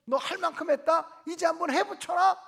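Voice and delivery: rile her up to hit back; a friend loudly urging revenge; egging on. Retold or imitated. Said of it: "똑같은 상황을 물으면".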